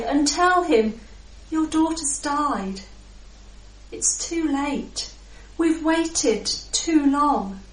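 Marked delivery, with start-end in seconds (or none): 1.5-7.6 grieving messengers. Acted. Household brings news of death.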